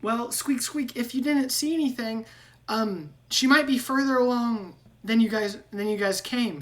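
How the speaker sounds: high, squeaky rat voice with squeaks; squeaky rat man. Acted. GM voicing Ratrick.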